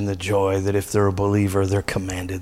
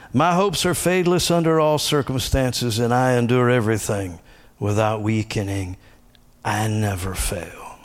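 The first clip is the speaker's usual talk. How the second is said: declaring. Shown as a demonstration. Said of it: "speak it out loud like the confessions".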